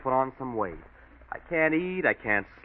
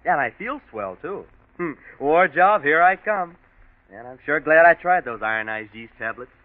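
cheerful boast; 2 semitones higher, 5 dB louder than usual. Acted. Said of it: "you aren't saying".

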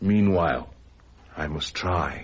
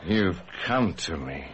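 tender wonder; 2 semitones lower, slower than usual. Acted. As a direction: breathe it to a long-lost love. Dazed man greets supposed lost love.

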